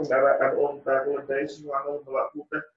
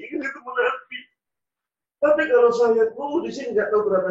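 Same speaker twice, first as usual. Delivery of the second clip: louder, anguished wavering between staying and going; torn inner outcry; 6 semitones higher, 5 dB louder than usual. Acted. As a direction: argue with himself out loud in distress. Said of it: "Dia perang dalam hatinya". (pergulatan batin yang diteriakkan dengan suara keras)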